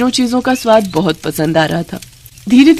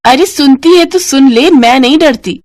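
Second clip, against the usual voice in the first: defiant retort; 5 semitones higher, 4 dB louder than usual. Acted.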